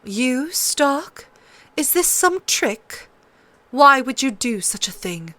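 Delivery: queen doubting Ned's offer; suspicious. A narrator's reading. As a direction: probe him for a trick. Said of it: "regarded him suspiciously".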